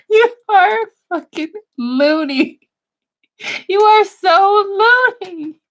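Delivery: amazed cry at the caller; incredulous exclaim. Real, not acted. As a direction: stretch it out in disbelief.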